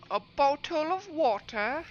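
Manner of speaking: A bottle of water? drawn out slowly, pitch climbing high on "water"; mock a foreigner's "A bottle of water?" with a slow high rising tune; imitating an accent. Mimicking how a viewer says "A bottle of water?". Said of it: "You say it like".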